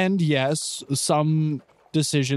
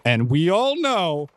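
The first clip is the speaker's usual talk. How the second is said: slow, higher-pitched defensive insistence; really defensive; 4 semitones higher, slower than usual. Acted. Clyde arguing about who's in charge, really defensive. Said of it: "Clyde is getting really defensive".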